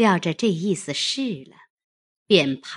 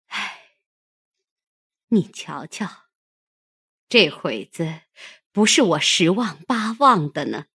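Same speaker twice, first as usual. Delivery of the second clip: sighing lament. Acted. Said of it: "长叹一声".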